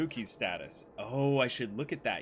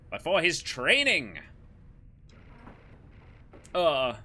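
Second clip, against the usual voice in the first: wholesome knight voice; 2 semitones higher than usual. Acted. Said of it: "somehow wholesome Spandam voice".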